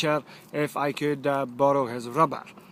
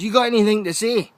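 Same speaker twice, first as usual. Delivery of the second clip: quick, louder demand; stern headmaster; 5 semitones higher, 5 dB louder, faster than usual. Retold or imitated. Headmaster demands an answer from the scolded boy. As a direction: snap the question down at the kid. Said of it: "And he goes".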